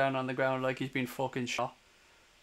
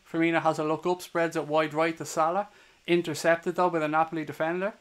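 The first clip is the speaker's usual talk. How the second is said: steady live match commentary; play-by-play. Acted. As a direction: call the game as it unfolds.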